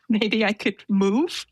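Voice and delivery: whispered through a little laugh, half-joking. Retold or imitated. Asking the stewardess for a new seat, whispered with a laugh. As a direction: sneak the request out in a giggling whisper.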